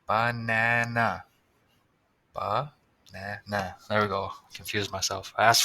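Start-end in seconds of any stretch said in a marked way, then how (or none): 0.1-1.2 "banana" stretched out slowly, each syllable clear; slow, careful. Shown as a demonstration. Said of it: "spelling banana". 2.3-3.8 very slow, settling. Shown as a demonstration. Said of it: "spelling banana".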